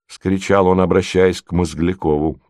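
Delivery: ordinary delivery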